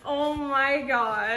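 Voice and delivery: delighted. Real, not acted. Reacting to worm socks.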